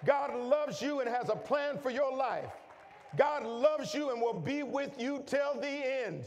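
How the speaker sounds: fervent pulpit climax, pitch climbing; preaching at full force. Acted. Preaching build on God's love.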